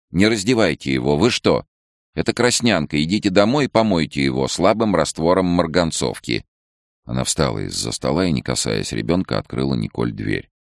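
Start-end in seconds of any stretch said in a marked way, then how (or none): 0.1-6.5 a sharp official voice, higher and louder; alarmed order. A narrator's reading. Head doctor ordering Nicole not to undress the rash-covered baby, alarmed. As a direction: stop her and send her home.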